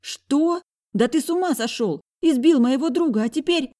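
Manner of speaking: put-on high, loud shocked girl's voice; high shocked sister yelling; outraged girl. A narrator's reading. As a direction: burst out in disbelief.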